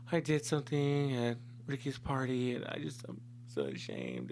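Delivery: soft imitation of an ashamed girlfriend; guilty, tearful confession. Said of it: "she's crying, she's feeling guilty".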